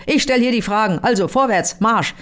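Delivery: mild mock thunder. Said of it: "donnert nur barsch".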